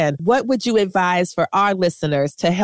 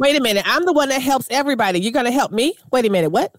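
mock disbelief; 5 semitones higher, faster than usual. Mock disbelief at being helped.

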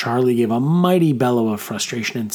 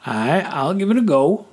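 rumbling; 6 semitones higher than usual. A narrator's reading. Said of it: "he rumbled".

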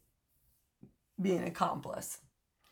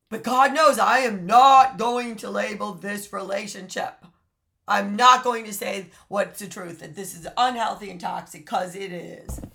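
mock denial voice; 7 dB louder than usual. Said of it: "La La Land says".

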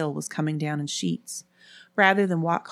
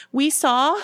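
high, loud panicked start; gasped; 10 semitones higher, 5 dB louder than usual. A narrator's reading. Ellen reporting what she saw, gasping in panic. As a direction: burst out as if shaken. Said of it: "Ellen gasped".

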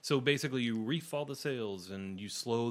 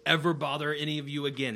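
higher, louder desperate pleading; begging for my life; 6 semitones higher, 8 dB louder than usual. Acted. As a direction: beg for mercy, frantic. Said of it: "pleading for his life".

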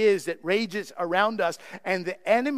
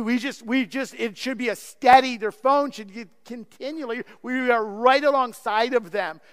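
ordinary talk

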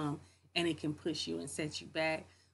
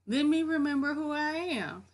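high, louder self-reminder; raised, emphatic mirror pep talk; 10 semitones higher, 6 dB louder than usual. Acted. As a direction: pitch it up, talking yourself round in the mirror. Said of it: "look at yourself ... and be like".

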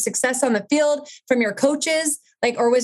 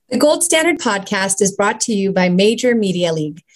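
brisk promotional read; sponsor ad read. Acted. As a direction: sell the app like a host read. Reads sponsor ad.

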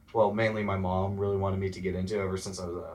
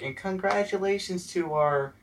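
mock awards-ceremony announcer, much higher; mock school announcer; 10 semitones higher than usual. Mocking the school awards that skipped the tennis team, hammed-up announcer. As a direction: play an overblown announcer reading out awards. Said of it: "they're like".

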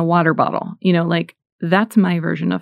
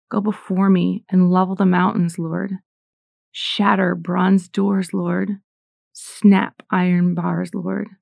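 prayer; slower than usual. Acted. Spoken prayer to God.

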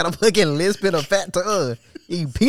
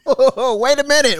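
laughing; 6 semitones higher, 4 dB louder, slower than usual. Real, not acted. Laughing shock.

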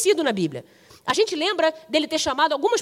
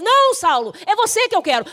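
higher, emphatic insistence; raised-pitch, forceful contradiction; firm correction; 7 semitones higher, 4 dB louder than usual. Acted. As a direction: cut off the excuse and insist. God contradicting Saul's excuse.

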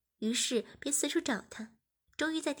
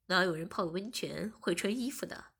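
teasing whisper; 5 semitones lower than usual. Acted. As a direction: breathe it as a sly tease. Teasing girlfriend about swimsuits. (调皮的耳语)

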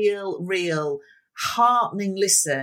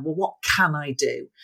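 "Well, what can I do?" with can as the clear peak; stress on can; 3 semitones lower than usual. Shown as a demonstration. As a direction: hit the word can, like a call to action. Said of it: "much more on the word can".

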